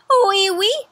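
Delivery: lightly voiced sad French poodle mother; mock sad French poodle. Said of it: "Missus Poodle agreed sadly".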